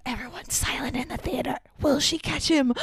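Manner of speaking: a touch of hushed suspense; mock anxiety. Kids in the theater awaiting the catch, mock anxiety. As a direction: hold your breath through it, playfully anxious. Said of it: "especially kids, just, like, anxiety".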